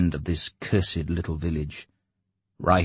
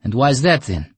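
louder, higher surprise; astonished broker; 7 semitones higher, 7 dB louder than usual. A narrator's reading. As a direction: ask in disbelief. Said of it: "The broker was astonished".

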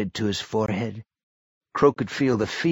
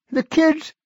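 put-on high, loud, strained old man; a feverish old man pushing through; sick old man; 4 dB louder than usual. A narrator's reading. Barry voiced, cut off.

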